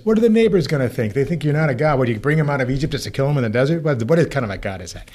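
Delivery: put-on Jewish accent. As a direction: argue back at God with a Yiddish-flavoured lilt. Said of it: "I say this in my kind of Jewish accent".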